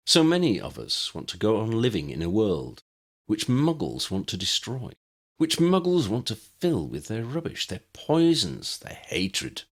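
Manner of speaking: a lightly voiced zealot building his address; rally the faithful with growing fervour; preacher-like villain rising to a crescendo; rousing cult leader speech.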